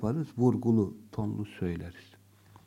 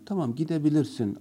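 gentle permission; 3 semitones higher, faster than usual. Shown as a demonstration. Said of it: "hiç rencide etmeden".

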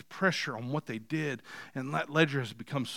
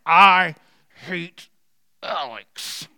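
mock yelling; 5 semitones higher, 9 dB louder, much slower than usual. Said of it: "when you're yelling as you write".

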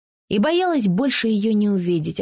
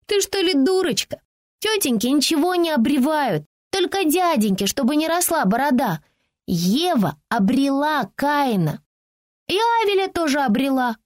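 put-on a much higher, scornful child's voice; mocking little girl; 6 semitones higher than usual. The five-year-old girl scoffing at Francie, high scornful child's voice. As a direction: tease her like a bratty five-year-old.

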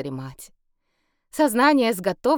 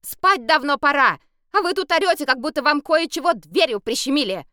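angry; 8 semitones higher, 6 dB louder than usual. A narrator's reading. Scolding from window.

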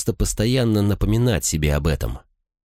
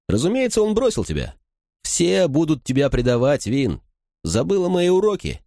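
voiced pitched higher, taunting brother; a higher mocking brother's voice; Reen's mocking voice; 10 semitones higher than usual. A narrator's reading. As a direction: sneer it like a cruel older brother.

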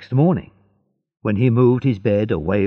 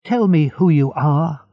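higher, insistent call; crying out; 6 semitones higher, 4 dB louder than usual. Acted. Edmund calls to the unseen prisoner, crying out. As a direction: demand it with some urgency. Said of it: "cried Edmund".

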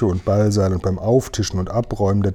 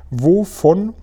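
slow, high-pitched reproving question; tut-tutting, higher and slower; reproachful; 8 semitones higher, slower than usual. A narrator's reading. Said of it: "fragte die Königin in tadelndem Ton".

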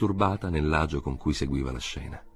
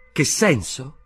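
sharp high surprised shout; K cries out, more surprised than irritated; surprised cry; 9 semitones higher, 4 dB louder, slower than usual. A narrator's reading. K to the inspector, surprised outcry. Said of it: "Gridò K, più sorpreso che irritato".

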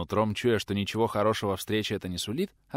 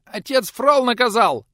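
put-on much higher, louder squeaky boy voice; squeaked; 12 dB louder, slower than usual. A narrator's reading. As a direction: squeak it out in panic. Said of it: "успел пискнуть тот".

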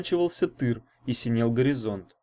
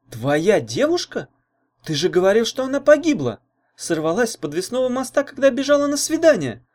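higher and louder, amazed; astonished exclaim; 10 semitones higher, 4 dB louder than usual. A narrator's reading. Girl hears the dead girlfriend is alive, astonished, higher. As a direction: exclaim in disbelief, voice climbing. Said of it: "поражённо воскликнула Таня".

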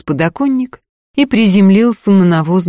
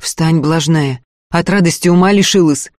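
put-on scolding young man. Man scolds kneeling girl.

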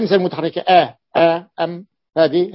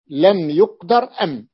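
slow repeat. Shown as a demonstration.

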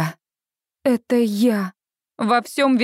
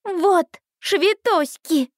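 put-on high, slow toddler barking "Вот швитоськи!" like a general; a little girl commanding an army; booming warrior king; 8 semitones higher, much slower than usual. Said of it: "рявкает она голосом полководца".

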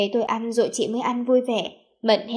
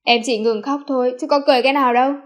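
louder, mildly defensive retort; arguing back; 6 dB louder, faster than usual. A narrator's reading. Embarrassed narrator answering his teasing sister, arguing back. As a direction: protest playfully, pushing back. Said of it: "Tôi cãi lại".

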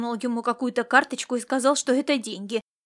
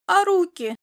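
long-suffering whine; 7 semitones higher, 5 dB louder than usual. Acted. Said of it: "со страдальческой миной".

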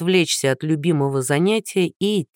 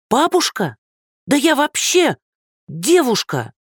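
blurted outrage; 8 semitones higher than usual. Acted. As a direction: blurt it out, insulted. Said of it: "выпалила незнакомка".

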